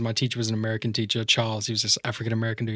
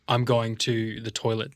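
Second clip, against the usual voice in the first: slow Australian, back in the throat; unhurried Australian throat voice; Australian accent. Shown as a demonstration. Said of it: "ours is we talk in the back of our throat".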